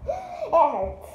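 laughing through pain; high, laughing complaint. Real, not acted.

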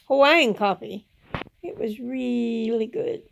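speaking without dentures in; no teeth in. Real, not acted. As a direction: talk with a toothless mouth. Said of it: "I don't have my teeth in".

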